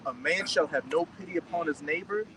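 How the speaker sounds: slow, solemnly paced verse reading; scripture reading. Acted. Reader giving verse nineteen to the group, slow scripture reading. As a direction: read it out slowly, phrase by phrase.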